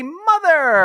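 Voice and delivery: a teasing, drawn-out mother; playful emphasis. Acted. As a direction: sing out the word mother with a flourish. Host punning on double Mother's Day.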